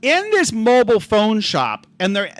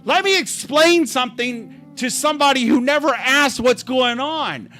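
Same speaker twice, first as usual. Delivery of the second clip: mocking impression of a meddler; 4 semitones higher than usual. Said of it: "he's like".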